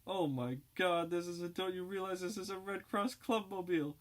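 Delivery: put-on a girl terrified she has been kidnapped; shrill panic. Kidnapped Red Cross girl begging the dope fiends, shrill panic. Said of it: "the girl's voice rising to an alarming intensity".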